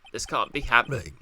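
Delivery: a small burp mid-line; embarrassed small burp. Real, not acted. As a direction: let a small burp slip. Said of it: "Sorry for the burp".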